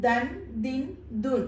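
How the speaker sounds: ദൻ, ദിൻ, ദുൻ recited as a set; teacher modelling ദൻ, ദിൻ, ദുൻ syllable by syllable; pronunciation demo. Shown as a demonstration. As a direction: sound out ദൻ, ദിൻ, ദുൻ, each closing on n. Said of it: "എന്നാണ് നമ്മുടെ pronunciation".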